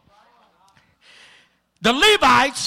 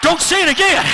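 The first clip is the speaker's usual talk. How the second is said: high, loud squeal; squealing demon; 8 semitones higher, 5 dB louder, faster than usual. Retold or imitated. Shrinking demon begging the preacher, squealing. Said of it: "I could hear him squealing".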